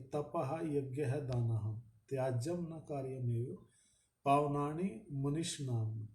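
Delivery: slow, measured scripture recitation; Sanskrit verse recitation. Acted. Preacher to listeners, reciting the Sanskrit shloka slowly.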